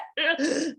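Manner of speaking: breathless gasp. Retold or imitated. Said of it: "lost for breath".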